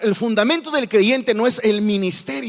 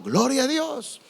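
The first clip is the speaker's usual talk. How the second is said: mock congregant shout; 5 semitones higher, 3 dB quieter than usual. Congregant's exclamation acted.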